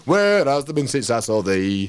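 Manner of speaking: slow, broad Yorkshire; Yorkshire dialect. Shown as a demonstration. Poet demonstrates the dialect to the host, broad Yorkshire. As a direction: stretch the line out in broad Yorkshire. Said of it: "the Yorkshire dialect".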